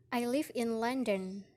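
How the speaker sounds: "London" falls in pitch at the end; statement with a falling tune on "London"; falling statement intonation. Shown as a demonstration. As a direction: let the pitch drop on "London" as a plain statement. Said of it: "example of falling intonation in statement".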